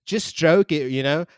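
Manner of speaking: hammed-up prank caller giving orders; mock caller demanding a broom on speaker; crude phone caller. S0 role-plays crude phone caller.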